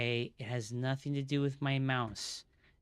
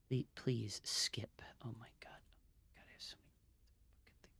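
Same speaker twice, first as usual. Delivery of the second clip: pleading whisper; 3 semitones lower, 10 dB quieter, faster than usual. Real, not acted. Streamer whispering at a stuck installer, desperate. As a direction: beg the program under your breath. Muttering frustration at software.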